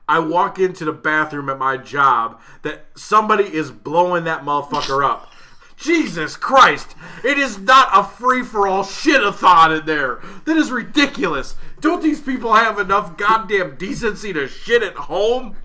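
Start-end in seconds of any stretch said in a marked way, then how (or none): 5.8-13.2 ranting outburst. Real, not acted. Ranting about coworkers.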